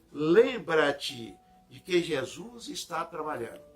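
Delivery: measured, declaimed devotional reading; leitura solene de sermão. Acted. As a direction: read the passage out deliberately, with weight. Reads Emmanuel's text aloud. (leitura devocional pausada)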